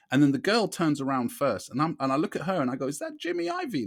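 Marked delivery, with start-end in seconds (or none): 2.9-3.9 much higher, softer, amazed asking; high surprised question. Shown as a demonstration. Asking the young lady if that's Jimmy, high and hushed. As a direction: ask the girl in disbelief. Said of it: "like that, yeah".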